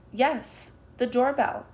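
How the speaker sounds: high loud call; child calling out. A narrator's reading. Child telling the king about the doorbell, calling loudly. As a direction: shout it up to the stage. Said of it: "a child calls".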